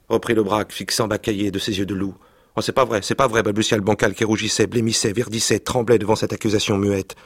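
lively reading aloud of a French novel; story reading. Acted. Reading a childhood novel aloud to the interviewer, expressive narration. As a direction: read the scene with vivid expression.

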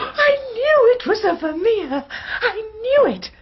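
high, loud, exultant outburst; triumphant cry. Acted. Companion unmasked as killer gloats over the Vermeer, triumphant shout. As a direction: crow it out, vindicated at last.

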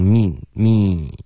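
teacher models the me vowel; careful me. Shown as a demonstration. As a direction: stretch me slowly. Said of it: "这个me，eh的音要注意".

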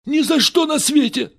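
high, loud outraged cry; exclaimed refusal. A narrator's reading. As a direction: fling it back in refusal. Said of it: "воскликнул Ричи".

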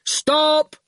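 sharp shouted order; fierce shout. A narrator's reading. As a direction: bark it out fiercely. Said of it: "a fierce goon shout".

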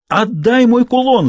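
put-on high, drawn-out girl's yell; wailing cry. A narrator's reading. Ghostly girl demands her pendant back, wailing. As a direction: wail it slowly, pitched well up. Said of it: "завопило привидение голосом Изабель".

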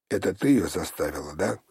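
usual speaking voice

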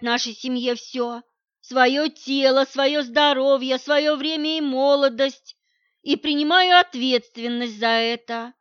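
loud, slowed, emphatic protest; heated argument. Acted. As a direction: hammer each point home. She argues heatedly.

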